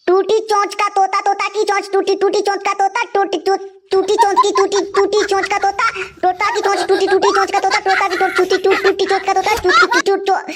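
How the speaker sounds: rattling off the tongue twister quickly; fast. Acted. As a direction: race through टूटी चोंच का तोता at speed. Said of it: "जल्दी जल्दी बोलो".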